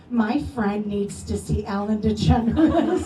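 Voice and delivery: slow, emphatic imitation of a protective friend; mock motherly overdrive. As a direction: demand it with comic motherly gravity. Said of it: "like, motherly load".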